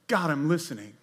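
gentle surrendered listening; quiet humble prayer. Pretend. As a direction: say it as an open listener. Contrast with yelling, humble posture.

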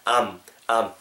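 "am" as I and am run into one syllable; linked sounds. Shown as a demonstration. Teacher showing linking to learners, "am" as one syllable. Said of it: "I am이 음이 연결되면".

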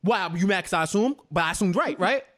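put-on slightly quick Haitian-accented retort; lightly Haitian-sounding imitation of an indignant man. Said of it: "You sound like a Haitian dude".

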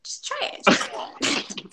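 whispered, coaxing tease; teasing whisper. Pretend. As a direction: whisper it like a dare. Teasing husband to try.

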